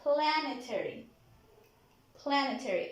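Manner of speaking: Planetary with the PLAN punched; stress on first syllable. Shown as a demonstration. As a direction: hit PLAN in "Planetary", the rest light. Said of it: "At the first syllable".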